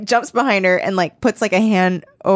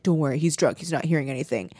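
hushed whisper; 7 semitones lower, 7 dB quieter, much faster than usual. Retold or imitated. Plotters whispering near sleeping dad.

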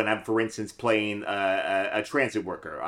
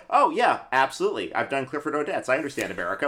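mock-confident actor, pitched up at first; breezy overconfidence; 4 semitones higher, faster than usual. Trained actor boasting he understands America, breezily overconfident. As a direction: lightly send up a cocksure trained actor.

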